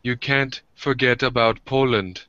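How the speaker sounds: lightly acted disbelief, scolding; imitated indignant scolding. Retelling a Polish girl berating an American, indignant.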